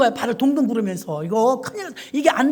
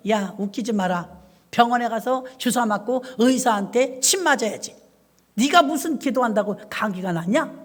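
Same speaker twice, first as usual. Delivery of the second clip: mock devil's taunt. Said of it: "마귀가 주죠, 그런 생각을".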